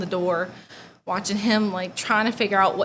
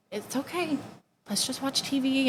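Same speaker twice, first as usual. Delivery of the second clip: put-on soft, higher-pitched comforting of a child; soothing reassurance; 5 semitones higher, 4 dB quieter than usual. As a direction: reassure a little sister gently. Soothing little sister, retold.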